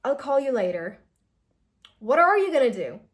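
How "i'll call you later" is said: "I'll call you later" said flat, dropping at the end; falling statement. Shown as a demonstration. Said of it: "if you're just giving a statement".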